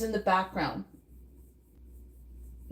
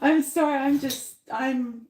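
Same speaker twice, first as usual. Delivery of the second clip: laughing; 2 semitones higher than usual. Real, not acted. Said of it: "I'm just laughing".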